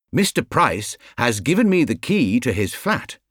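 a touch of self-importance, lightly voiced bear; proud little bear showing off his key; announced importantly. Paddington announcing the flat key to the family, mildly important. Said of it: "he announced importantly".

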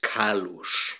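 Kalush with a final sh sound; Israeli pronunciation. Shown as a demonstration. Guest giving the surname as said in Israel, Kalush ending in sh. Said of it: "but in Israel, it would be".

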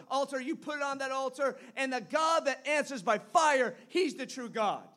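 bold, loud call-out to the prophets; Elijah's challenge. Retold or imitated. Preacher voicing Elijah challenging Baal's prophets, bold and loud. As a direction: throw down the challenge.

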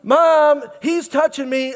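put-on high whiny kid complaint; whiny tattling little sibling. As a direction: tattle on your brother. Kids fighting in car.

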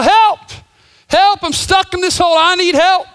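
high, loud desperate shouts from the bottom of a hole; boy in a hole yells up to anyone passing, loud and high; yelling for help. Acted.

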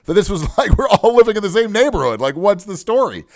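acting out fed-up passengers complaining; indignant complaining. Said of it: "everybody started complaining".

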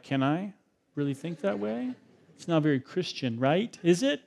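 soft, hushed self-questioning; doubting inner voice. Retold or imitated. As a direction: ask it under your breath, unsure. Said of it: "you're like".

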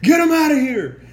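mocking fans who turn on the coach; mock angry fan. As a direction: jeer like a fed-up fan. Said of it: "Isn't that fucking crazy".

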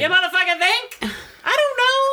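high, laughing indignation; laughing outrage. Real, not acted. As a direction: scoff through a laugh. Mocking the card, laughing.

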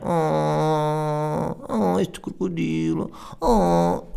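high cutesy coo over a toy; babyish cooing. Retold or imitated. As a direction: coo like a little girl. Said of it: "imitating the childish woman". (voz de bebé aguda, a arrulhar)

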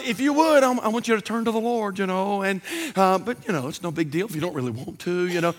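low, soft, half-hearted appeal; mock monotone. Timid preacher asking sinners to turn, mock monotone. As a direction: trail along as if it hardly matters. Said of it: "speak in a monotone voice".

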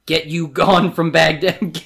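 slow, loud villain's banishment; commanding. A narrator's reading. Jafar banishing the horse's owner, commanding. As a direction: order them out, high and measured.

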